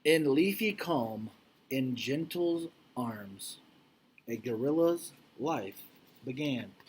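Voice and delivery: slow, gentle read-aloud; storybook reading. Acted. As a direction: linger on each phrase for the children. Reads picture book to class.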